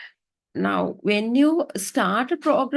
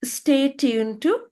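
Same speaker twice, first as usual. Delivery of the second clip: slow, drawn-out stay tuned to; announcer pacing it slowly; slow sign-off; 3 semitones higher, slower than usual. Shown as a demonstration. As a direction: stress to and stretch each word. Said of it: "And at the end say".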